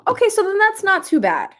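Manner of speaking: bright, loud and high relief; light up with relief; excited relief. Real, not acted.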